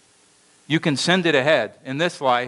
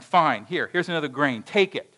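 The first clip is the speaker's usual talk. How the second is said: grudging; 3 semitones higher than usual. Acted. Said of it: "All these thoughts are going through his mind".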